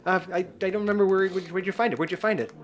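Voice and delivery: high character voice; high, uncertain muddle; forgetful Goliath. Acted. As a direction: wonder aloud, pitched high. GM voices Goliath trying to remember.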